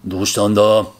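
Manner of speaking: low, growled master's question. Retold or imitated. Master asking the student what's wrong, low growl. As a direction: growl it low from the head of the table. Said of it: "And he goes".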